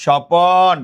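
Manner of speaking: স্বপন as "sho-pon", long second syllable; inserted vowel in স্বপন. Shown as a demonstration. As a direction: stretch an o between p and n in স্বপন. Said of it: "স্বপ্ন থেকে বললাম". ("স্বপন"-এ প-এর পরে টানা অ)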